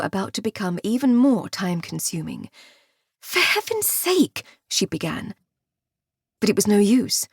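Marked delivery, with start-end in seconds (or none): 3.2-4.4 exasperated. A narrator's reading. Alice exasperated.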